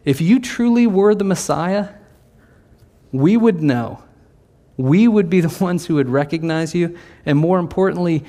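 rising panic at losing power; Pharisees' rising alarm. Retold or imitated. Pharisees voiced by the preacher, rising alarm.

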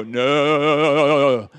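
a sharp, loud parental "No."; firm dad cutting a child off, loudly. Retold or imitated. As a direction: stop the child's hand with one loud word. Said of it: "I grab their hand and go".

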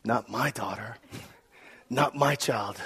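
low, hushed inner voice; private thought. Retold or imitated. New dad thinking to himself, quiet and resolute. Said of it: "I remember thinking".

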